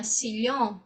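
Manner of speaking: "sillón" with a Spanish lh-like ll; Spain lh sound. Shown as a demonstration. Teacher contrasting Spain's "sillón". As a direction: say "sillón" as "si-lhon". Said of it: "já na Espanha".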